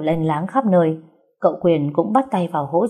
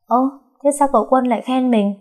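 taken aback, pitched higher; stunned puzzlement; 7 semitones higher than usual. A narrator's reading. Girl wonders why the young master praised her, stunned. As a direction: blurt a puzzled question, higher. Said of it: "Trúc thất thần".

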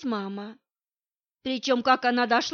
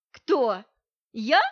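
louder, puzzled double take; surprised; 7 dB louder than usual. Acted. Masha is surprised by Nadya's question, puzzled double take. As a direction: act startled by the question. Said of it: "удивилась она вопросу".

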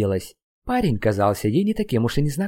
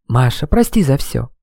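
sobbing apology; 2 semitones higher, 5 dB louder than usual. Acted. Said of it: "шептал Слава, всхлипывая".

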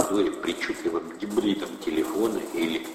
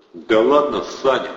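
loud, higher sheepish protest; embarrassed thug; 7 semitones higher, 8 dB louder than usual. A narrator's reading. Thug backs down before Atasov, sheepish. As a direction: backpedal like a caught schoolboy. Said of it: "Протасов смутился".

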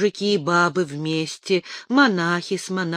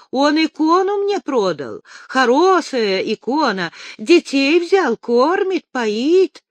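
put-on high, loud tearful drunk voice; drunk crying; 9 semitones higher, 5 dB louder than usual. A narrator's reading. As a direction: sob it out like a drunk. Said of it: "Остяк был навеселе".

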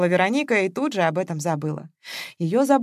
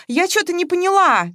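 put-on high squeaky young woman's voice; squeak; 12 semitones higher, 6 dB louder than usual. A narrator's reading. Daughter-in-law squeaks her confusion at the family table. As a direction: squeak out the puzzled question. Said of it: "пискнула невестка Оленька".

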